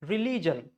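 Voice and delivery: religion as ree-LEE-jun; religion broken with long "ee"; wrong RELIGION. Shown as a demonstration. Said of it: "we are breaking it here".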